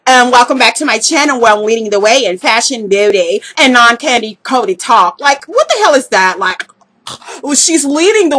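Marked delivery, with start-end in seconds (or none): 0.1-5.2 measured, slightly slowed mock channel intro; Miss Q T Style. Mocking a rival's channel intro, light impression. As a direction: lightly mimic a vlogger's rehearsed greeting. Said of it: "like, her intro".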